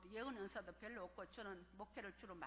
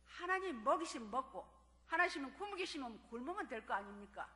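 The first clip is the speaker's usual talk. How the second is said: quoting daughter again; 3 semitones higher, 10 dB louder than usual. Retold or imitated. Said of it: "그렇게 말하더라고요".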